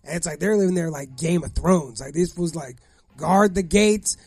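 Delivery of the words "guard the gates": mock besieged resident. Imagined townhouse residents under siege.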